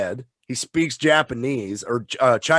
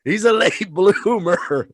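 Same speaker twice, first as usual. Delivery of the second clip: high, slow put-on voice; movie-quote voice; 6 semitones higher, slower than usual. Fan quoting the late bloomer line, slow hammed-up delivery. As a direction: draw out the quote in a raised voice.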